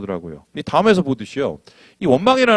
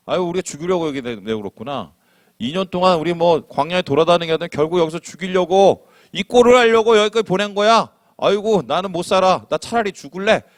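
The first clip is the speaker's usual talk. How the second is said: a touch higher, whiny griping; grumbling complaint; 4 semitones higher than usual. Acted. Israelites complaining to God, mild whiny grumble. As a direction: moan it like a fed-up wanderer. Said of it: "이런 얘기를 합니다".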